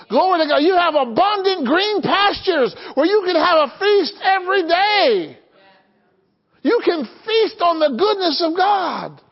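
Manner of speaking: high, ringing pulpit proclamation; fervent preaching. Real, not acted. Preacher promising the congregation a daily feast, fervent preaching.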